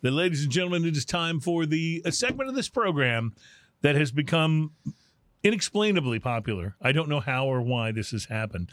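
playful game-show announcer build-up; announcer intro. Acted. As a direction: roll it out like a showman introducing the act. Host announces the segment.

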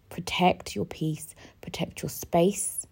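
slow whisper; whispered mantra. Real, not acted. Advising listeners to guard themselves, whispered. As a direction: breathe the advice softly.

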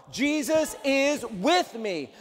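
each word drawn out slowly; slow declaration. Shown as a demonstration. Pastor leading the church in a slow affirmation. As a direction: lay it down slowly and firmly. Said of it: "Three, two, one".

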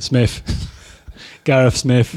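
loud Corby accent, "Smith" ending near an f. Shown as a demonstration. Guest showing how his hometown says his name, Corby accent. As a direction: say it like a Corby local. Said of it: "from where I'm from in Corbett".

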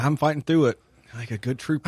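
talking around ice in mouth; words round a piece of ice. Real, not acted. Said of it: "I still have to have a piece of ice in my mouth".

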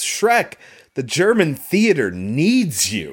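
high, slow, grand praise for an actor; lightly voiced awed director; mock director praise. Praising the vampire's commitment, lightly voiced and slow. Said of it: "he says".

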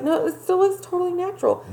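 high prissy mocking tone; mock her fake innocence. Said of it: "she's like".

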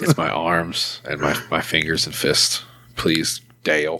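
low, slow, softened pretend warning; mock restrained anger. Upset employee warning touchy-feely boss off, mock restrained anger. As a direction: play barely contained anger, slow and low.

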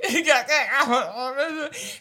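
loud, high imitated sobs; mock sobbing. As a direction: wail out garbled, exaggerated sobs. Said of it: "just sobbing".

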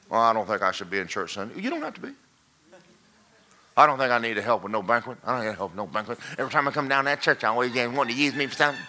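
quick, lightly voiced complainer; mock grumbling churchgoer. Pastor mimicking a member dodging church work, lightly voiced. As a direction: mimic a lazy member's excuses.

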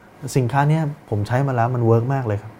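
acted unsure sales pitch; unconfident. Shown as a demonstration. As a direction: sell it as if you doubt yourself. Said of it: "มันดูไม่มั่นใจ เห็นปะ?". (น้ำเสียงไม่มั่นใจ ลังเล)

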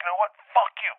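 high, loud fuck-you; angry shout. Retold or imitated. Host shouting back at the guy, furious. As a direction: slam the door on him.

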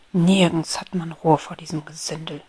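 grumpy, disgruntled mutter; grumbling beetle. Acted. Beetle Peppy grumbles about the rabble, disgruntled. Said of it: "mürrisch".

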